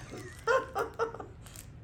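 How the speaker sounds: high airless giggle; breathy laugh. Real, not acted. Breeder laughing that the puppy might pee, airless giggle.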